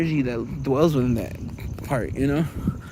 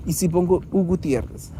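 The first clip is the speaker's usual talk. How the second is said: attempted Zulu. Shown as a demonstration. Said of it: "I think that's how you speak Easy Zulu".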